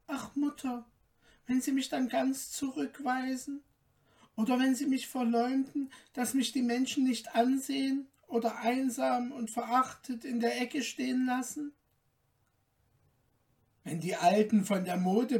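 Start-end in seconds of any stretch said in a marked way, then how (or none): 0.1-11.7 put-on lightly raised, gently pleading girl's voice; young daughter's voice. Märchen pleads with her mother.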